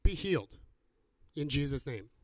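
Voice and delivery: firm declaration, dropping in pitch at the end; calm, authoritative pronouncement of healing; proclamation. Shown as a demonstration. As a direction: proclaim it in two measured phrases. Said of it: "more of a proclamation".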